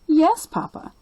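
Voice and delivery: put-on high, eager little-girl voice; a small girl telling her grandpa; young girl Lucy.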